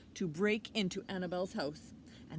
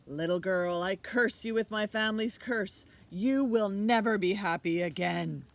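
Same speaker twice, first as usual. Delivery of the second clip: louder, furious curse; shouted curse; 2 semitones higher, 11 dB louder than usual. Acted. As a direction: curse her with fury.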